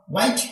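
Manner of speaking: व्हाइट begun on a plain W; no H sound in व्हाइट; silent H. Shown as a demonstration. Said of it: "यहाँ पर भी एच silent है". (व्हाइट में एच silent)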